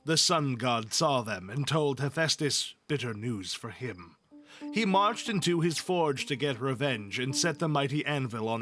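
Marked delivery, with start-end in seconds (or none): none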